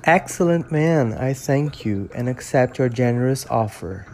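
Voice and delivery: measured English audiobook reading, steady and clear; story narration. Acted. Reading Frankenstein to his followers, calm storytelling narration. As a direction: read the novel aloud like an audiobook.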